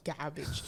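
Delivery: "garbage" with the r dropped, like "gah-bidge"; own accented pronunciation. Shown as a demonstration. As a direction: say "garbage" softly with no r sound. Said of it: "Yeah, I say, like".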